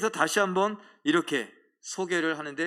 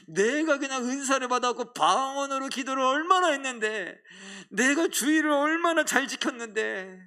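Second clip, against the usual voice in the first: higher, pleading list of what I did; self-righteous complaint; 6 semitones higher than usual. Pretend. Believer complains to God about unrewarded effort, higher and pleading. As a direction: pile up your merits to God, higher.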